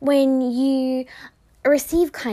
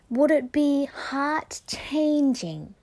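whispered question; much slower than usual. Real, not acted. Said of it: "rhetorical question".

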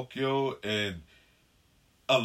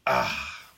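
while sipping a drink; 10 semitones lower than usual. Real, not acted. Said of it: "Pardon me while I sip my brew".

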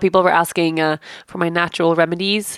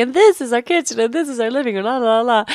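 higher, sing-song tour-guide delivery; mock video-host patter; imitating house-tour presenting; 6 semitones higher than usual. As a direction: present the rooms in a lifted, showy voice. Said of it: "You were so grumpy that whole day. And I'm like".

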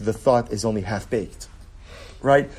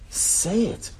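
higher pitched, pressing insistence; high urging; 8 semitones higher, 3 dB quieter than usual. Acted. Teacher urging students to speak, pitched higher. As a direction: lift it up, push them to speak.

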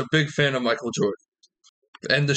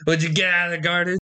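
quick Irish phrase; 4 semitones higher, much faster than usual. Shown as a demonstration. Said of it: "Fun phrase used in conversation".

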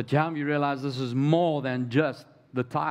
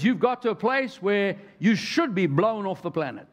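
God warning; 5 semitones higher than usual. Retold or imitated. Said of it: "God says".

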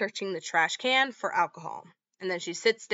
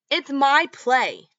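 retold yell; 6 semitones higher, 7 dB louder, slower than usual. Daughter yells back at mom.

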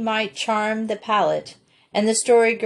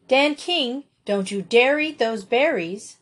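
bossy scold, pitched up a little; bossiest tone; 4 semitones higher than usual. Acted. Felicity warning her brother off the berries, bossy. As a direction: boss her brother about. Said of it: "in her bossiest tone".

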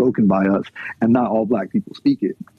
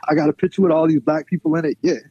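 mock poser, laughing; 5 semitones higher, faster than usual. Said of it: "mocking a poser's justification".

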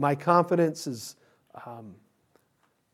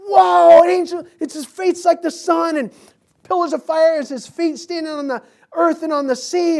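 high, loud, amazed exclamation; awestruck; 10 semitones higher, 6 dB louder than usual. Retold or imitated. Preacher voicing John's amazement at the angel. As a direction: gasp out the vision in wonder.

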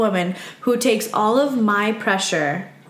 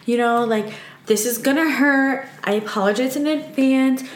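higher, gentle and slow, apologizing ahead; soothing warning to patient; 5 semitones higher, slower than usual. Retold or imitated. Massage therapist gently warning her patient, slow and soothing. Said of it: "I'm like".

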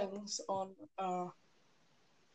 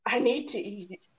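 talking while chewing; words round a bite of food; mouth full; 3 semitones lower than usual. Real, not acted. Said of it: "while you're chewing".

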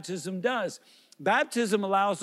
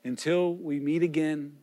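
lower, measured priestly blessing; benediction; 3 semitones lower than usual. Real, not acted. Pastor blesses departing worshippers, solemn and measured.

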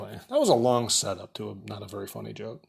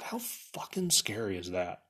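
whispered in disbelief; hushed whisper; 2 semitones lower, 8 dB quieter than usual. Real, not acted. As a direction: drop to a slow whisper. Aside about a scary hospital stay.

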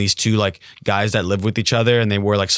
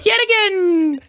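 high, loud cackle into a drawn-out cry; weird voice; 3 dB louder, much slower than usual. Acted. Thief taunting victims while running off, weird high villain voice. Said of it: "he was very high pitched".

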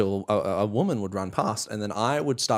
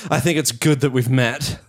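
creepy line; 4 dB louder than usual. Retold or imitated. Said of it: "I go".

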